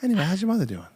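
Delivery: a hint of chummy actor patter; Mark Wahlberg. Comedian closing his bit with a question, light Mark Wahlberg impression. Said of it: "That's basically my Mark Wahlberg".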